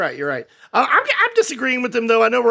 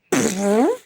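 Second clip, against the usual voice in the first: big mocking raspberry; blown raspberry. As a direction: blow a rude raspberry as a verdict. Blows raspberry as review verdict.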